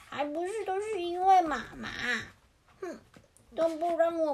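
lightly acted childish grumble; grumbling little chick. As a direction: complain like a sulky chick. Chicks grumble about mother.

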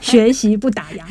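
emphatic slogan finish; proud company motto; punchy slogan. Real, not acted. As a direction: land the last phrase of the motto firmly. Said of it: "有没有很有力".

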